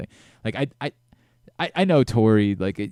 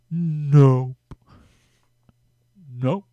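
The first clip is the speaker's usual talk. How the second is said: Jacoby's nope; 4 semitones higher, 5 dB louder than usual. Retold or imitated. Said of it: "I can't even mimic it".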